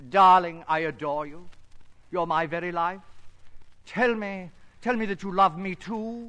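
a lightly hammed-up screen lover, pleading; romantic lover demo. Shown as a demonstration. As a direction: croon it like an old matinee idol, lightly. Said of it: "may I be you for a moment? ... Then watch me".

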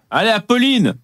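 cheering. Real, not acted. Cheering on TV guest.

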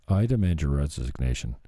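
a limp, half-hearted demand; deliberately weak demand. Shown as a demonstration. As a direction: say it so it falls flat. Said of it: "do you see how that didn't work".

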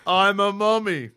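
dusty mummy rasp. Acted. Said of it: "no longer a mummy voice".

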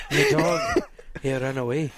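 halting attempt at an Irish accent; amateur Irish impression. Shown as a demonstration. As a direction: try on an Irish accent in two pieces. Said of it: "in Irish".

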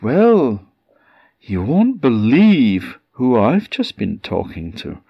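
lightly voiced excited wife; bursting with news; wife teases her husband with her news; eager wife. Woman tells husband.

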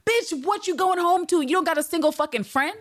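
rip into her in a high mocking voice; high sassy scolding. Speaker scolding Eve for going home, high and sassy. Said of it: "I'm like".

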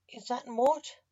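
high, bright little chirp of a question. A narrator's reading. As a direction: pipe it up high and eager. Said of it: "the chicken chirped".

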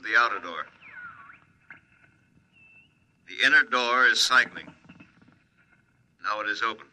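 muffled throat mic radio voice; speaking through a throat mic. Acted. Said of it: "He's speaking over a throat mic in his pressure suit".

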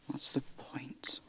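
slow, hopeless whisper. Acted. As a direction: whisper it slowly, defeated. Despairing question in drama.

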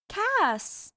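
high bright call of his name; girl calling out. A narrator's reading. Hester tugging Cass into the dance, high call. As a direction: call him onto the dance floor.

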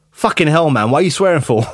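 startled friend, half-joking; mock outraged friend. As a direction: play the shocked friend on the phone. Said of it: "he was like".

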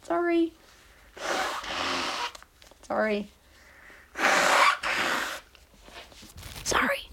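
stuffy voice from blowing nose. Real, not acted. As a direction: say it mid nose-blow. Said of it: "Excuse me while I blow my nose".

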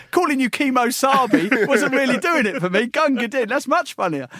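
gloating mock voice. Premier gloating over a new nickname, high put-on voice. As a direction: lord it over him, amused.

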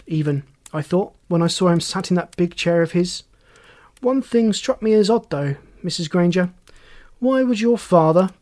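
lightly voiced probing detective; inspector pressing witness. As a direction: build a pointed question with mild suspicion.

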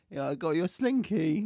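put-on Italian auntie voice; lightly lilting Italian auntie; Italian accent. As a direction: present a gift in a comic Italian accent. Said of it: "That was my accent".

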